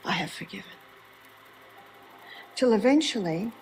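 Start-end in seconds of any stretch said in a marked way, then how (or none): 0.1-0.8 soft, low self-reminder; quiet resolve. Retold or imitated. Doug reminding himself whenever challenged, quiet resolve. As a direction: say it low and softly to yourself.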